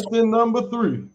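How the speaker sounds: high, loud game show announce; game show host. Pretend. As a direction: call it like a quiz host.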